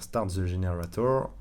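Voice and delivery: English words in a French accent. Real, not acted. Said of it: "désolé pour mon accent anglais". (anglais avec l'accent français)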